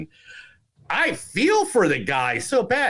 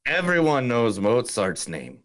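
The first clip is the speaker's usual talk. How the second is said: a light Irish lilt on the film quote; Irish accent. Retold or imitated. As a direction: read the line like an Irish villager. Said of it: "Thank you for the Irish accent".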